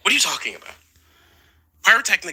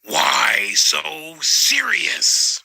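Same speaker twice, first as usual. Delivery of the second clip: Joker imitation, louder take; much slower than usual. Teachers quoted in slow menacing Joker voice, pitched up. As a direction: stretch it out like the Joker again, lifted. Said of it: "they'd say".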